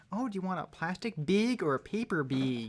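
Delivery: put-on beeg for bag, Milwaukee cashier accent; imitating a Milwaukee cashier's accent; mock Wisconsin accent. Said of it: "I remember when we lived in".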